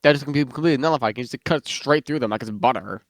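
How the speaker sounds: talking with mouth full. Real, not acted. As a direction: speak through a bite of pizza. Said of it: "it's like my mouth is full".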